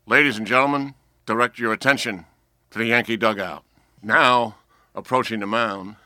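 loud, booming stadium announcer imitation; Bob Shepard. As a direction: announce it like an old ballpark PA, pausing between phrases. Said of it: "I used to do imitations of him".

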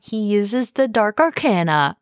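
booming announcer call of the move name; fighting game announcer. Pretend. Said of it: "That was my announcer voice".

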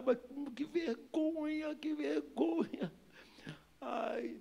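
high, soft drawn-out whine; stretched-out, high embarrassed moan; mortified wail. Acted. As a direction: wail it slowly, cringing with shame. Acting out his own shame.

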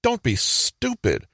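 high-pitched, drawn-out mock scream; mock yell. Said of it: "might literally yell and scream".

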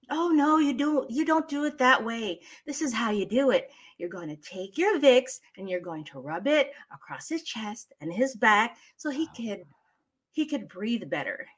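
instructive mother, starting high and loud, easing toward normal. Shown as a demonstration. Mother shows her kid how to use Vicks, instructive mother voice. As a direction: correct the child, then show how it's done. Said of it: "Let's do an English mother first".

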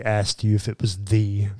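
unvoiced teasing whisper; whispered jab at a friend. Real, not acted. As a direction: whisper it as a sly aside. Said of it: "Clayton is dying over there".

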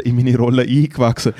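"eingewachsen" with the weight on "gewachsen"; stress on gewachsen. Shown as a demonstration. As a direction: punch "gewachsen" inside "eingewachsen". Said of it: "mit Betonung auf gewachsen".

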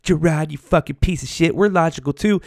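high, mocking imagined woman's retort; mock listener. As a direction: throw back a mock indignant comeback. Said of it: "you're gonna be like".

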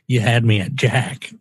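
a touch of a Southern drawl on "You had me at Jack"; lightly Southern, easygoing; Southern accent. Acted. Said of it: "He became more Southern with my accent".

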